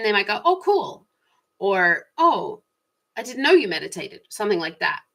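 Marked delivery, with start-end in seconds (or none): 0.4-1.1 light, high-pitched interested reaction; friendly approval. Pretend. Imagined friend's approving reply. 2.2-4.2 raised pitch, friendly interest; pleasant surprise. Pretend. Imagined friend's interested reply.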